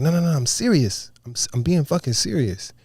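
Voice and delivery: insistent. Retold or imitated. Chief to laughing crew, insistent. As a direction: insist on being taken seriously.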